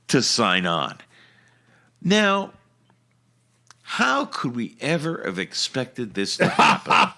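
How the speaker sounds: lightly mock newscaster delivery; news read. Host delivers the Washington news update, mild anchor style.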